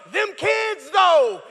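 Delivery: hammed-up weary single mom; exasperated mom. The struggling single mom complaining to a friend, in a hammed-up weary voice.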